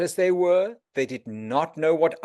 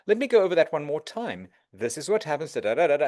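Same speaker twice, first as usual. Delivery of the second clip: calm patient explaining; faster than usual. Shown as a demonstration. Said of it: "you should just calmly go".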